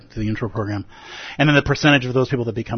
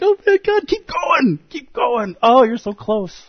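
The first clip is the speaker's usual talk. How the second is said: thrilled cheering; 13 semitones higher, slower than usual. Pretend. Reader cheers the dragon on, in a very high, thrilled voice. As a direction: cheer him on, bursting with excitement. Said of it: "You're like".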